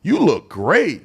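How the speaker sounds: high, slow, hearty mock Trump praise; lightly voiced Trump, easygoing and upbeat; friendly Trump greeting. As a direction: imitate a boss slapping your back with compliments. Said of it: "he just talk to you like a regular person".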